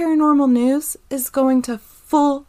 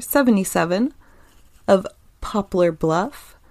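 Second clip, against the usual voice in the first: steady, measured article read. Acted. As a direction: read it out like a news piece. Reads news article aloud.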